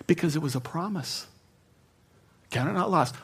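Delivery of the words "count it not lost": "Count it not lost" repeated softly, pitch near normal; quiet echo of God's words. Real, not acted. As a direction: savour the promise gently. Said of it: "I will never forget those words".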